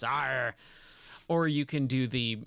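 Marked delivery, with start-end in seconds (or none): 0.0-0.5 gruff pirate. Acted. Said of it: "You can do the gruff pirate voice".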